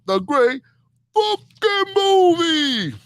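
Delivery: huge drawn-out announcer call, soaring high on movie; segment announcer. Acted. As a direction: belt the segment title like a TV announcer, very slow. Announcing his segment title.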